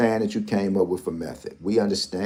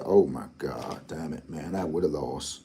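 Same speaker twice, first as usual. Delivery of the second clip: muttered self-quote; 5 semitones lower, 8 dB quieter than usual. Retold or imitated. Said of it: "I said".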